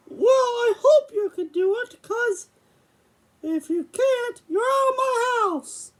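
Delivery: a hint of a cartoon mouse playing a stern father; Mickey voice. Puppet dad questions son about money, lightly voiced Mickey. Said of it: "I gotta use my Mickey voice".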